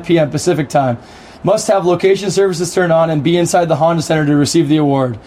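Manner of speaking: radio voice. Shown as a demonstration. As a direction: read the ad as a radio announcer. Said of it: "in your best radio voice".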